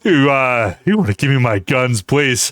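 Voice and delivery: loud cartoon tough-guy impression; cartoon voice bursting into a shout at the end; Joe from Family Guy. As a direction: build from a request to a drawn-out yell. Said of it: "Joe from Family Guy".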